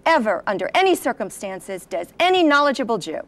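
mock booming rabbi warning; looming voice. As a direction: loom over the crowd, proclaiming. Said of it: "in a big, looming voice".

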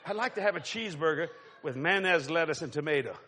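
low, droning zombie order-taker, slowing down; zombie fast-food worker. Acted. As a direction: take an order like the walking dead. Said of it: "You know how the zombies are?".

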